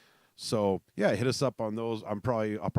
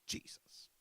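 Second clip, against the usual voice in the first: exasperated whisper; 12 dB quieter than usual. Real, not acted. Exasperated at the snow.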